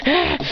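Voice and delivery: brief acted "ah"; short fight cry. Character hit in a fight.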